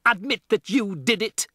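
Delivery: high, loud demand; roaring. A narrator's reading. Headmistress ordering Matilda to confess, loud roar. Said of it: "roared the Trunchbull".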